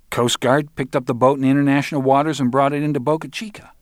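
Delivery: put-on high-pitched voice of a young dealer; defensive Arnold. Arnold explains the loss to Roland, high defensive voice.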